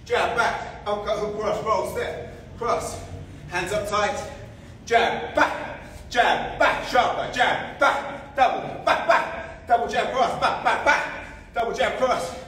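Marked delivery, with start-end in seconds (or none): 4.8-12.3 high, loud, laughing combo calls; excited laughing calls. Real, not acted. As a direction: shout the drill through laughter. Fast pad drill, laughing calls.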